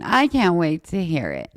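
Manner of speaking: whispered mock eagerness; sarcastic whisper. Sarcastic aside.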